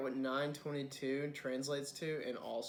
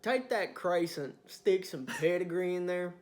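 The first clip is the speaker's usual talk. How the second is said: Southern redneck customer; 4 semitones higher, 5 dB louder than usual. Acted. Customer ordering pedigree in a crescent, loud Southern twang. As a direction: demand it in a hammed-up Southern twang.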